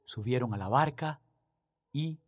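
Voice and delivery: reading the Gospel aloud, measured and solemn; lectura solemne del Evangelio. Acted. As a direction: proclaim it to the congregation. (lectura del Evangelio, pausada y solemne)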